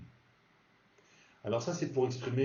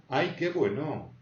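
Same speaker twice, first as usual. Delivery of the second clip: delighted exclamation; 3 semitones higher than usual. Shown as a demonstration. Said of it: "comme interjection".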